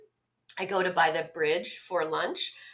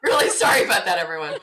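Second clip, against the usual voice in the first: laughing apology; 3 semitones lower, 5 dB louder, faster than usual. Real, not acted. Apologising for the noise.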